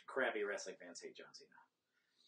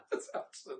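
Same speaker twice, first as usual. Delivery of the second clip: whispered; 4 dB quieter than usual. Real, not acted. Whispered after laugh.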